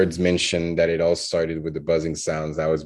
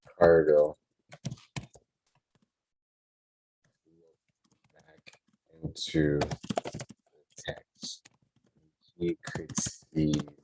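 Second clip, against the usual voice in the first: halting word by word, trailing softer; slow dictation; 2 semitones lower, 6 dB quieter, much slower than usual. Real, not acted. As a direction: dictate it slowly as you write. Writing the sentence as spoken.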